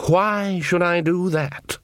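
slow, grand and haughty; lordly horned god. A narrator's reading. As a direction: speak as a bored ancient king. Horned king speaks.

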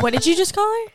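shocked mom scolding her son; mock shocked mom. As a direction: act out the scandalized grandma. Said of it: "She's like".

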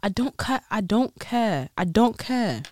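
put-on groping for a British accent; attempted British accent. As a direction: practise the British accent, repeating the phrase. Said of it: "how do you say it?".

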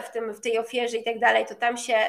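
ordinary talk, nothing marked

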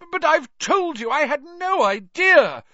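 high, earnest pleading voice; earnest protest over the crowd; earnest Bagman. A narrator's reading. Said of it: "Bagman called earnestly".

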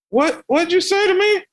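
high, outraged mock shout; furious driver. Driver shocked at the kid's cursing, high outraged shout. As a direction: fire it back as the stunned driver.

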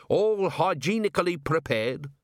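HYGIENICALLY PREPARED pitched high and rising; proud dwarf cook. A narrator's reading. Cook boasts to the watchman of "hygienically prepared" food, high proud claim. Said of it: "said Gimlet".

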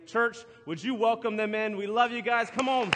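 rally the room to cheer; rousing call to the congregation. Real, not acted. Pastor urging church to welcome jail members, rousing.

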